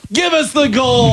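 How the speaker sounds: high, slow Southern cowboy shout; Southern accent. Retold or imitated. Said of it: "He's like".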